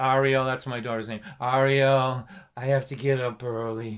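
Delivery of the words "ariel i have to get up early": pitiful, slow, beaten-down, defeated monotone drone. Acting out a man pleading with the speaker's daughter ariel: mock-defeated monotone. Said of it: "look as pitiful as possible and to speak in a defeated monotone".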